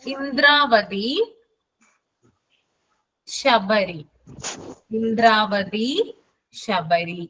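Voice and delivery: ഇന്ദ്രാവതി drawn out slowly for note-taking; slowed down after a student says it was too fast; slow dictation. Shown as a demonstration. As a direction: say it slowly so everyone can write. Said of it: "കുറച്ച് സ്പീഡിലാ പറയുന്നേ".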